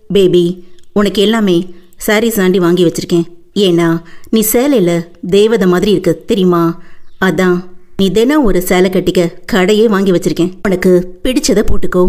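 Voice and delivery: a hint of the doting husband; low, casual male lead; lightly voiced lover. Male lead's lines voiced lower.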